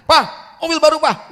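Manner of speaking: shrieked high and loud; excited demand. Acted. Son ignores his father's health and demands car, loud high cry.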